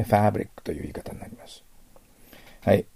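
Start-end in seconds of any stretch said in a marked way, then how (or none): 0.0-0.6 British English ファブリック with a gentler first vowel; イギリス英語の緩やかなA. Shown as a demonstration. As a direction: relax the "fa" of ファブリック, British style. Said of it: "緩やかになりますね". (イギリス英語風に緩やかなファブリック)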